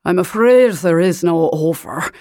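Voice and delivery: put-on thick Highland Scottish accent, rolled R's. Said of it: "in a thick Highland accent".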